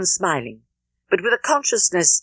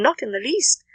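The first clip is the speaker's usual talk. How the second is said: warmly eager, higher voice; glad cry; 3 semitones higher than usual. Acted. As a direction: gush out the welcome, pitched up. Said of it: "cried Emma, most happy to begin".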